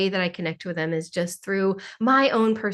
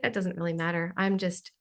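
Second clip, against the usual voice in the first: carefree reassurance; 4 semitones lower, 5 dB quieter, faster than usual. Retold or imitated. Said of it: "or you're like".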